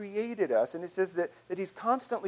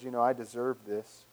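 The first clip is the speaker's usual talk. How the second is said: entitled voice; 5 semitones lower than usual. Acted. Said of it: "that voice of entitlement that says".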